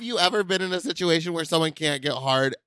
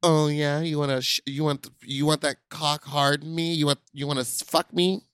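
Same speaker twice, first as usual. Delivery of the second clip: mock dirty talk; 2 semitones lower than usual. Cohost pretends to talk dirty to get someone hard, mock-sultry. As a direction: fumble through a pretend sexy come-on. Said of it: "Talk dirty to me".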